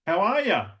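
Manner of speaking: high rising Australian greeting; Australian upward. Shown as a demonstration. Australian accent greeting with rising tune. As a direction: lift "G'day, how are ya" up. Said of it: "In Australia".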